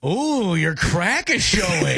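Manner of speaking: drawn-out mock concern after an ooh; slow it right down, dripping mock interest; sarcastic. Shown as a demonstration. Host trying the last tone for co-host, sarcastic. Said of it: "You gotta be sarcastic about it".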